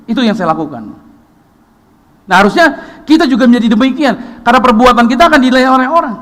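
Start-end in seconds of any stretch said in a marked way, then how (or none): 2.2-6.1 loud, high, driving sermon voice; full-force preaching. Acted. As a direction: preach it hard to the congregation. (pendeta berkhotbah kepada jemaat, suara keras dan tinggi)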